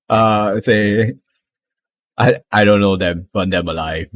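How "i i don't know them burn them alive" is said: commanding kobold. Acted. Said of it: "sounds a little bit more commanding kobold".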